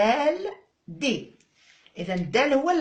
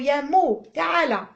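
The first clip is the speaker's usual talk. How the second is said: high, loud call across the class; 5 semitones higher, 5 dB louder than usual. Pretend. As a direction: call the letter over like a child. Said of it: "نعيط له الحرف ميم نقولوا له". (نداء عالٍ ومرتفع)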